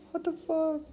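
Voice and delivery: high, laughing "what the fuck"; laughing incredulous exclamation; laughing disbelief. Real, not acted. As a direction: break into an amused, disbelieving laugh. Laughs reading a comment.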